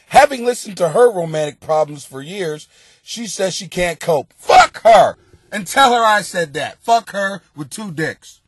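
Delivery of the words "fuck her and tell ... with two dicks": mock outburst. Real, not acted. Ranting at daughter.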